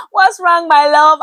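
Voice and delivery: high, loud, sugary imitation of a doting pastor; sweet pastor greeting. Pastor Ife greeting her warmly at church, imitated high and sweet. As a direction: coo it up high like a fond pastor.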